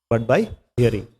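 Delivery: But by hearing echoed softly. Shown as a demonstration. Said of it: "So Prabhupada says".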